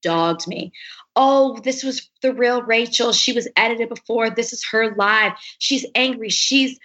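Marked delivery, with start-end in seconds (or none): 1.1-6.8 higher, mimicked online critics; mock outrage. Voicing Instagram critics who dogged her, mock outrage. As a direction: imitate scandalized critics piling on.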